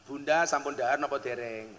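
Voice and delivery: gentle polite question. Retold or imitated. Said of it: "kali bojo kula mawon basa".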